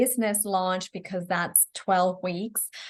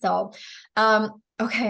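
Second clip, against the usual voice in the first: tired, strained hoarse voice. Real, not acted. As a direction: voice going hoarse from talking. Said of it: "I'm losing my voice".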